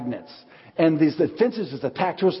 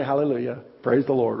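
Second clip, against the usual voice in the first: fake sweetness; 3 semitones lower than usual. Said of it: "but you smile and say".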